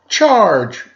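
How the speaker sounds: high, loud hammed-up charge call; playful mock shout; mock battle cry. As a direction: yell it like a charging dinosaur. Dinosaurs yelling.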